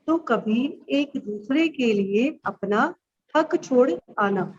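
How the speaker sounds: slow, measured verse with pauses between phrases; poem recitation. Acted. Teacher reciting her childhood sibling poem to pupils, slow recitation. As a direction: recite line by line, drawing out the words.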